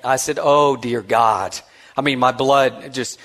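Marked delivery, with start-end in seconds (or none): 0.4-1.6 slow dread. Retold or imitated. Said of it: "I had that moment".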